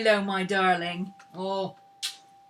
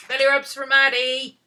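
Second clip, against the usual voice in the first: loud, high cheer to the dog; excited coo; 5 semitones higher, 10 dB louder than usual. Real, not acted. Owner cheering the dog on, loud and high. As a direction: whoop it to the dog.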